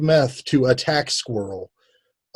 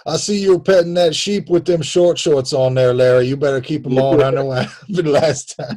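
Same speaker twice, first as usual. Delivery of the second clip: mock Alabama lawman; Alabama accent. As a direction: warn Larry in a hammed-up Alabama accent. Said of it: "That's all our Alabama accents".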